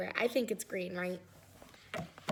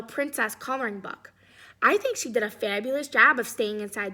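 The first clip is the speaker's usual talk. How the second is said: a touch of sass, a bit louder; lightly voiced sassy crayon; 5 dB louder than usual. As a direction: scold the kid in mock sass. Reads Pink Crayon's letter.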